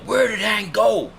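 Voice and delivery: high, slow puzzled voice of the guests; mock-confused high question, drawn out; confused relatives. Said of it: "Everyone was like".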